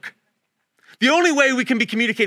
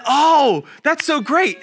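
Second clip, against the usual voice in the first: high, louder burst of delight; 5 semitones higher, 4 dB louder, slower than usual. Retold or imitated. Friend hearing of the tortilla plan, delighted. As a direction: gush over the good news.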